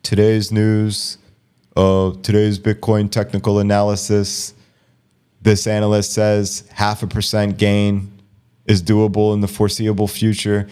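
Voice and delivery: slow, droning analyst read; slow monotone. Shown as a demonstration. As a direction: bore them with a flat news read. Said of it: "slow and monotone".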